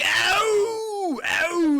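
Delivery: high loud whoops; hammed-up loud ow; mock cheering. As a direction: holler like the crew. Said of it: "they're all like".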